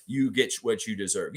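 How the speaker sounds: light imitation of a Brooklyn accent. New York talking to Philly, in a mild Brooklyn accent. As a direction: quote it with a hint of Brooklyn. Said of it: "that's a Brooklyn accent".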